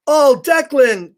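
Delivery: high, slow, delighted; excited greeting. Real, not acted. Reading to kids, delighted to greet Declan.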